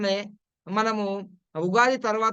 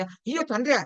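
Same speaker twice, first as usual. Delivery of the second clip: sons crying out; 6 semitones higher than usual. Retold or imitated. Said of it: "అలా పెడతారు".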